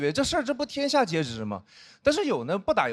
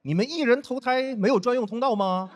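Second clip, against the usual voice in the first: mocking friend; 4 semitones higher than usual. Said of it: "还问我说".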